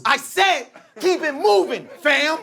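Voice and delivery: high slowed threat; menacing dude. Retold or imitated. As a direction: lean into the warning. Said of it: "He goes".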